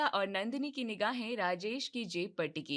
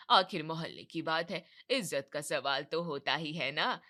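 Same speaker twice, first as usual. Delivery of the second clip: a hint of a showing-off neighbour, lower; boastful friend; 6 semitones lower than usual. Friend boasting to Kamla about her gift, lower nosy voice. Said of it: "कमला की एक सहेली वहाँ आती है और कहती है".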